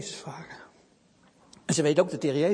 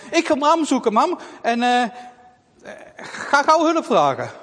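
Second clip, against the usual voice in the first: put-on urgent child; 6 semitones higher, 7 dB louder than usual. Girl runs off searching.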